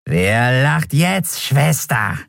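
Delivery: slow, high mocking creature voice; gloating skeleton. Skeleton gloating at captured Endriel, slow mockery. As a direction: savour the victory.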